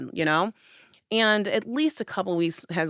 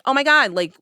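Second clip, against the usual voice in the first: louder, higher upset demands; frantic confrontation; 5 semitones higher, 4 dB louder than usual. Retold or imitated. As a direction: press him for answers, rattled. Confronting boyfriend who finally answers.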